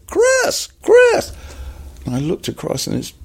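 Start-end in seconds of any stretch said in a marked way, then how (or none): 0.1-1.3 very high-pitched American hail; calling out. Acted. Director hailing actor across the lot, high urgent call. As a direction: call a name as if from far across. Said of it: "all of a sudden I hear".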